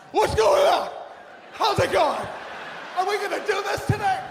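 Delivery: high, loud mock gym enthusiasm; hammed-up pep, shouted at the whole room; fake positive. Comic mimics spin-class regulars arriving, fake-positive shouting. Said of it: "everybody's fake positive".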